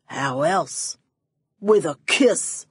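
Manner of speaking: lightly voiced Kleiner, slow on the kiss; smug villain. A narrator's reading. Villain smugly revealing his method, lightly voiced. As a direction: savour the answer.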